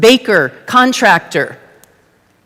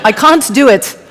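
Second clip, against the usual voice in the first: mock British accent, pitched up; 4 semitones higher than usual. Speaker showing off a British accent for the audience, hammed-up British. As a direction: say it in a playful put-on British accent. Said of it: "Put on my British accent".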